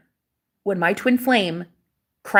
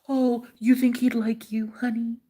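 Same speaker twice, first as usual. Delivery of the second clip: mocking naysayer; 5 dB quieter than usual. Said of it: "they tell you consistently".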